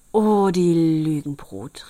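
loud, slow, drawn-out exclamation; outraged cry. A narrator's reading. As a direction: stretch out the indignant cry. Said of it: "rief der Schneider".

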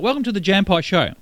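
chomping loudly through the words; loud chewing. Shown as a demonstration. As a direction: talk while chewing noisily. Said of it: "Imagine we started the show like that".

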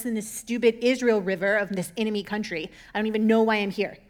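hammed-up outraged grumble; mock rage. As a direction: huff like an offended general. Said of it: "he stomps off in a rage".

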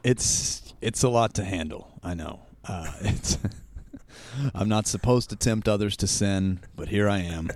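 raspy, hoarse and teasing; hoarse sultry voice. Real, not acted. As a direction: lean into the hoarse rasp. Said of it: "you sound so sexy today".

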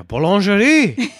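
high, slow laughing French; fake foreign language. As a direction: laugh through a hammy French word. Mock French word play.

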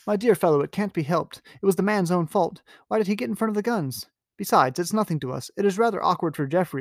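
Lord Henry. Acted. Reading Lord Henry's dismissive speech.

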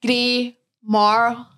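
"grey marl" in a Scottish accent; Scottish-accented, effortful "grey marl". Shown as a demonstration. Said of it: "hard word to say in a Scottish accent".

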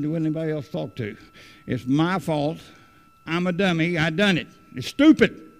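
rising from quick muttering to a loud, high cry of self-blame; mock self-scolding. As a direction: replay how he beat himself up, ending on a yelp. Retelling his own self-blame.

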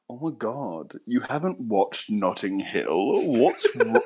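lightly mocked posh flirt, slow and drawn out. Friend mimics Jack chatting up his missus, flirting voice. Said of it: "which is, like, a flirting voice".

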